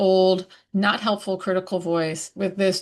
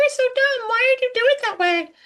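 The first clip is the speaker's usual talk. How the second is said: very high, squeaky cartoon voice; 3 dB louder than usual. Giving an example of changing a voice to something else, speaking in a Mickey Mouse voice. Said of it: "high and squeaky".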